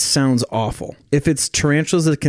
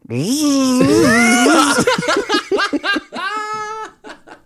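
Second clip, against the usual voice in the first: high buzzing squeal; murder wasp noise. Pretend. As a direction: do a silly wasp begging for a drink. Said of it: "Here's my impression of a, of a murder wasp asking for a drink".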